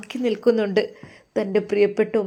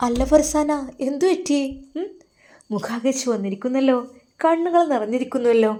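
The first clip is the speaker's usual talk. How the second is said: put-on higher, concerned older woman's voice; concerned lady of the house; 4 semitones higher, 3 dB louder than usual. Bivi asks the crying maid what happened, higher concerned voice. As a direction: ask gently what is wrong, pitched up. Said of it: "അത് ബീവിയാണ്, സൈത്തുൻ ബീവി".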